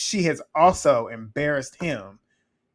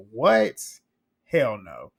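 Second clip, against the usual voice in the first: shocked refusal; 3 semitones lower, 3 dB louder, much slower than usual. Retold or imitated. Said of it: "She said".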